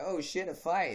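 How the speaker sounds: high, excited imitation of onlookers; cross-country kids crowding in, high and excited. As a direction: gasp it like you just spotted a brawl. Crowd of kids spotting fight.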